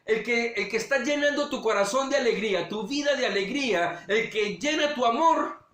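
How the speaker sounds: tug at a father's heartstrings; tender appeal. Retold or imitated. God speaks to Abraham's heart about his son, tenderly. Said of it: "le toca las fibras de su corazón".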